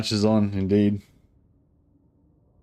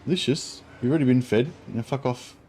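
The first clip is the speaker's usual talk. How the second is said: scolding the cat; 3 semitones higher than usual. Real, not acted. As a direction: shoo the cat away, irritated.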